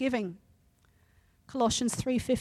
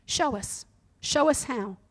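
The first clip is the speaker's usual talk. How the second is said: matter of fact; 2 semitones higher, slower than usual. Acted. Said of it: "Betty said matter of fact".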